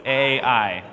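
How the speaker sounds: "Ai" as two letter names, A then I; said as spelt. Shown as a demonstration. Teacher showing the class how to read the town, said as spelt. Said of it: "Just say it like it looks".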